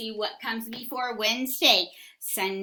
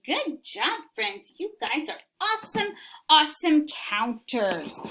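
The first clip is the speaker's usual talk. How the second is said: excited praise; 5 semitones higher than usual. Real, not acted. Praising children.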